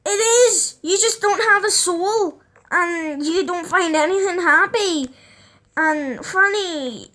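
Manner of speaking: high, laughing protest; laughing retort. Retold or imitated. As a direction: laugh it back at her, cheeky. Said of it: "And then I'm like".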